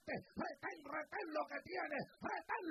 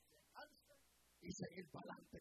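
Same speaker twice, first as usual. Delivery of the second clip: soft unvoiced urging; whisper; 12 semitones higher, 7 dB quieter than usual. Real, not acted. Preacher softly urging the grieving to move on, whisper. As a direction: breathe it as a gentle whisper.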